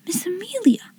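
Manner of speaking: soft, high and puzzled; to herself. A narrator's reading. Mystified girl reading the name on a card, to herself. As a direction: wonder softly to yourself. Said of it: "she said to herself".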